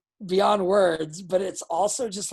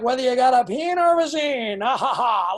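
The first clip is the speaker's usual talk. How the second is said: laughing; 4 semitones higher, 7 dB louder than usual. Pretend. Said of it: "I'm singing it already".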